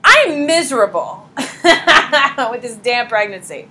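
slow, laughing through a mock moan; laughing complaint. Shown as a demonstration. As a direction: play up the misery with a laugh. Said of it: "I'll give you some subjective discomfort right now".

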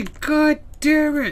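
frustrated outburst. Real, not acted. Streamer angry that the cure has started, cursing. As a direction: spit out the curse in frustration. Game cures the country early.

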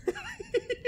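sudden high-pitched laugh. Real, not acted. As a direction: break into laughter mid-list. Laughing at the list.

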